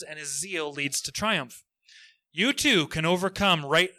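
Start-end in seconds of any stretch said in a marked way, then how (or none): 2.3-3.9 louder, salesy pitch voice; cheesy infomercial. Pretend. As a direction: sell it like a late-night ad. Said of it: "trying to sound like a cheesy infomercial".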